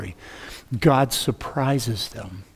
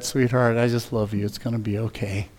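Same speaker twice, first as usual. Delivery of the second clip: tender comfort; 2 semitones lower, 4 dB quieter than usual. Retold or imitated. Comforting pregnant teen girl.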